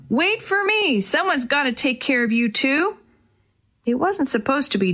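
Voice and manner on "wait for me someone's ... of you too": put-on high call after the boys; shouting after them. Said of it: "then shouted after them".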